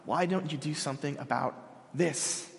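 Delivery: quiet plea. Shown as a demonstration. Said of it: "The first thing in your note sheets".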